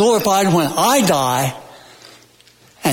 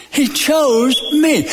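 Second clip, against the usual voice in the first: slow, raised pitch, ME held then falling; emphatic, stress on ME; 7 semitones higher, slower than usual. Shown as a demonstration. Preacher affirms God's choice to church, emphatic on ME. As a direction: lift the line and land on ME. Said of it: "any way you want to emphasize".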